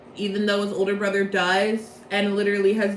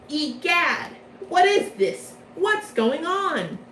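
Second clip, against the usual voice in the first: higher, hammed-up gasp of surprise, drawn out at the end; mock shock; 5 semitones higher, slower than usual. Leona finding Malleus in front of him, mock surprise. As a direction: play a startled cartoon villain. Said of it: "And Leona's like".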